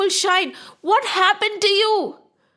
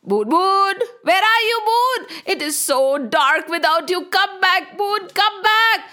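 high, pleading calls; acted crowd calling someone back; shouting for the moon; 5 semitones higher than usual. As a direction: call out with long, imploring vowels. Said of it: "looking for the moon and shouting".

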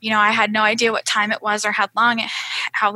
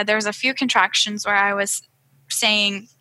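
ordinary talk, nothing marked

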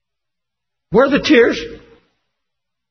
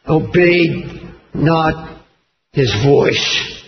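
very slow, very low, drawn out; solemn emphasis; 8 semitones lower, much slower than usual. Acted. Preacher stressing disobedience to congregation, slow heavy emphasis. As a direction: let each word fall heavily. Solemn slowed scripture climax.

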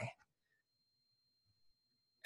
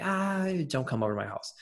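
mock uneasy whine, pitched up; mock reluctant groan; 5 semitones higher than usual. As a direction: stretch a high, uneasy groan into the plea. Acting out dread at unwelcome visitor.

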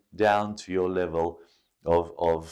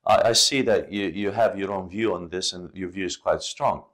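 disagree kindly and gently; calm polite disagreement; respectful and calm. Pretend. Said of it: "be respectful and say".

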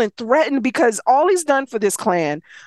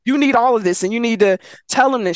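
midwife mode. Retold or imitated. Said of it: "switches into midwife real quick".

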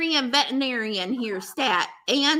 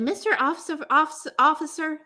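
mock pleading; 4 semitones higher, faster than usual. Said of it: "I didn't say it like that".

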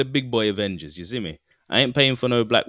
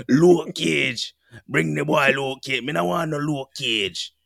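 mock Jamaican accent; 2 semitones higher, slower than usual. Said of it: "fake Jamaican accent".

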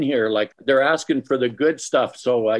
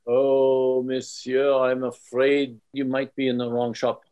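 fake French accent. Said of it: "my fake French accent for you".

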